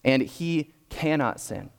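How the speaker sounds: slow and weighty, every word landed; emphatic. Acted. Preacher voicing John's emphatic claim, slow and weighty. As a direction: declare it as firmly as possible. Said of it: "raise his voice, be as emphatic as he possibly can".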